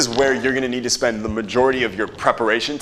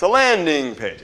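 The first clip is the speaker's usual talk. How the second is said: LANDING pitched high, then falling; drawn-out emphasis; 6 semitones higher, slower than usual. Shown as a demonstration. Coach repeating the term for the class, drawn-out emphasis on LANDING. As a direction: lean hard and long on LANDING. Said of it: "You gotta say it like that".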